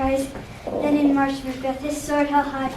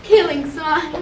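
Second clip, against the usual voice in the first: louder, slow relishing witch; 4 semitones higher, 7 dB louder, slower than usual. Acted. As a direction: savour it like a wicked witch. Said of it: "The second replied".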